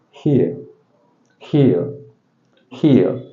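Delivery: "Here" ending in a vowel glide, r left off; silent final r. Shown as a demonstration. Teacher shows learners the r is not pronounced, silent-r "Here". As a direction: say "Here" with no r sound at the end. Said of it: "The sound is not pronounced".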